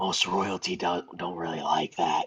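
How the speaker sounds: whispered aside. Voicing a character who leans in to another's ear: whispering. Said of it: "just kinda whisper in his ear".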